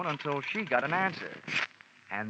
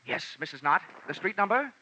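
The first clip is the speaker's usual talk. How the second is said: fake radio DJ; 4 semitones higher than usual. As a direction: sell it like a pushy radio host on the phone. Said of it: "Happy Jack the Money Man".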